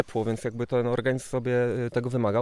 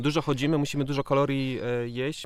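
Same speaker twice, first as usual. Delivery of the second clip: chewing while talking. Real, not acted. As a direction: mouth full of cake. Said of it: "z pełnymi ustami".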